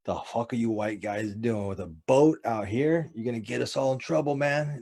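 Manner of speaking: a hint of grumbling old fishermen; lightly voiced complaint, lifting toward the end; imitated old men scolding. Old men at the park warn the fishermen, mock scolding. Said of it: "they're old black dudes, and they'd be like".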